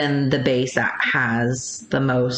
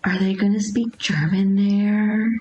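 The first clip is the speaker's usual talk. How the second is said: put-on mildly anxious, higher-pitched child's question; nervous child; 4 semitones higher than usual. Son asking mom about first day of school, mildly nervous. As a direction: imitate a worried little boy, voice lifting slightly. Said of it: "he was really nervous".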